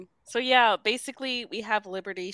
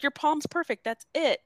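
higher-pitched, mock freaked-out retelling; mildly freaked out; 8 semitones higher than usual. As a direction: brush it off, a touch rattled. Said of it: "weirdly freaked out".

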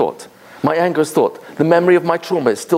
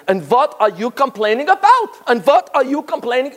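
put-on old survivor lady, thick Yiddish accent, raised pitch; 8 semitones higher than usual. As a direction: scold the crying child in a thick Yiddish accent. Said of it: "in a very thick, uh, accent".

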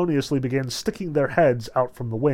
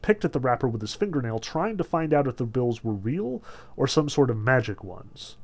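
usual speaking voice

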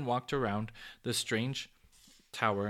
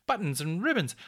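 loud, higher, tumbling out; excited crying out; 5 semitones higher, 6 dB louder than usual. A narrator's reading. Popoff leaping up by the tower, crying out excitedly. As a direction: shout it as the plan dawns.

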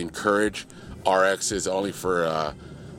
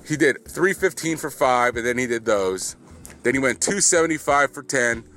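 excited raving; 5 semitones higher than usual. Real, not acted. Raving about Rivers.

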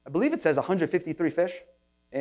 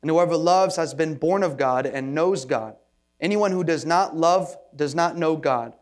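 scripture reading. Acted. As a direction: read it out like a formal Bible reading. Reads scripture aloud.

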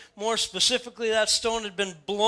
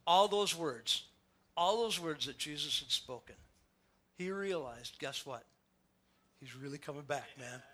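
hushed; 7 semitones lower, 10 dB quieter than usual. Acted. Hushed climax of realization.

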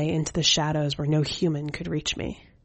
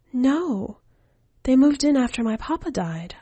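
put-on higher, light boyish voice; child's voice; 8 semitones higher, 3 dB louder than usual. Keiichi asks the skeleton woman for news, in a higher boyish voice. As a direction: voice the boy, eager and casual.

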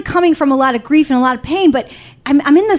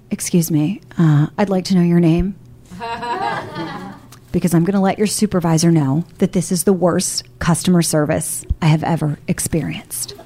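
Karen voice; 6 semitones lower than usual. Retold or imitated. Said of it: "I brought that voice on, you know that "Can I speak to your manager?" voice".

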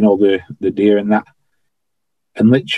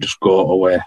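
through gritted teeth; 2 semitones lower than usual. Retold or imitated. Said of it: "just talking through my teeth".

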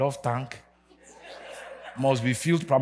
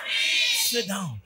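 shout. Real, not acted. Preacher ending the shouting.

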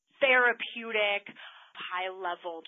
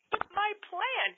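whiny daughter; 12 semitones higher than usual. Retold or imitated. Daughter upset at losing her plan.

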